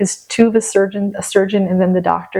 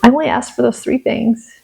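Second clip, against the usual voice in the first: frustrated retold plea, pitched up; aggrieved, higher-pitched appeal; mad at God; 5 semitones higher than usual. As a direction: question God with a touch of anger. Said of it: "I was just so mad".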